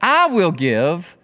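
"I" stretched slowly and stressed; slow, weighty emphasis on "I"; emphatic I. Shown as a demonstration. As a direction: lean hard and slow on "I". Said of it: "there is this emphatic".

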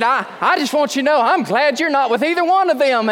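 a lightly voiced older lady; voiced neighbor lady. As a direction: play the relieved neighbor confiding.

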